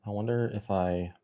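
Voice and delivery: speaking with gum in mouth; chewing gum. Real, not acted. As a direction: chew gum between words. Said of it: "Let me get rid of this gum".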